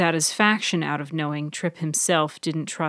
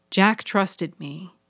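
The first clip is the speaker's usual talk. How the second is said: clear and sad; 2 semitones higher, slower than usual. Acted. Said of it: "but very clearly and sadly".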